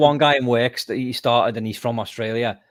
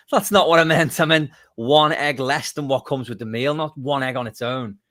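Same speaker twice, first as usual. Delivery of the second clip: higher, louder mock complaint; exasperated protest; 5 semitones higher, 5 dB louder than usual. Friend protesting the one-egg breakfast, exasperated. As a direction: put out, setting the waiter straight.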